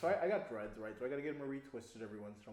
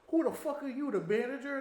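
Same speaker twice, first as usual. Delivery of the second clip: higher, louder mock shout; mock angry; 11 semitones higher, 7 dB louder than usual. The angry customer to the teller, a louder mock yell. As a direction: snap back hostile in a mock voice.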